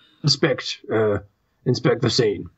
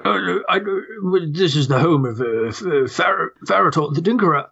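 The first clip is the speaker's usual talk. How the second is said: put-on grumpy old toad. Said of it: "speaking like this hurts my voice".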